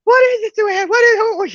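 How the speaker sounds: very high, alarmed calling; retold frantic yelling. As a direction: call anxiously across the house. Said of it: "She yells out for my mom".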